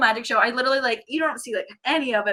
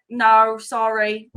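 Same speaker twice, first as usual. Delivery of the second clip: slow, loud imitated British refusal; British accent; 5 dB louder, much slower than usual. Housekeeper turning her away, slow British accent. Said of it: "I'm loving your British accent".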